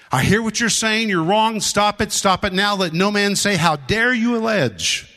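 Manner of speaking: urgent acted command, pitch held up; commanding rebuke. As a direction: act out James firmly cutting off an objection. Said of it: "I'm commanding you now".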